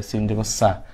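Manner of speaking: plain thin s in সা, lips unrounded; সিনের উচ্চারণ. Shown as a demonstration. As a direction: say সা with a light, flat-lipped s. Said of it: "অনেকেরই এটা সিনের মতন এসে যায়". (স্বাভাবিক মুখে সিনের সা)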